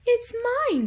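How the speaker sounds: very high, bright little chirp; piping bird voice, high and loud; tweeting bird. Acted. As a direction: tweet it like a tiny bird in a tree. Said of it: "the bird tweeted".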